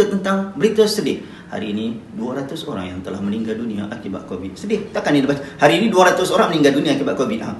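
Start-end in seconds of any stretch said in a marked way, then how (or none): 1.5-4.6 softer, lower newsreader voice; soft sad news tone. Shown as a demonstration. Teacher demos reading sad news softly. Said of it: "nada dia agak lembut". 5.4-7.5 louder news read with no sadness; wrong loud reading. Shown as a demonstration. Teacher shows the wrong way to read sad news. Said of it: "tak boleh, tak sesuai".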